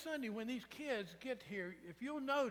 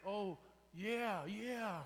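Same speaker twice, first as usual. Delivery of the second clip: lazy agreeing chime-in; 4 dB louder, much slower than usual. Retold or imitated. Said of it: "you even chime in and go".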